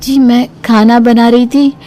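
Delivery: put-on young bride voice. Bahu voice again.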